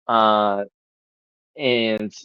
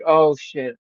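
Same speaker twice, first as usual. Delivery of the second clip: chilled-down apology; 4 semitones higher than usual. Retold or imitated. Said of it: "he's finally chilled down".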